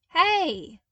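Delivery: loud high call across the room. Acted. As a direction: call out to stop the clones. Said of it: "he called out".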